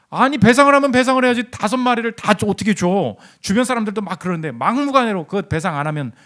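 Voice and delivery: indignant retold protest, high at the start; acted-out anger. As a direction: protest in mock outrage, then sputter out. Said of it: "막 화를 냈다는 거예요".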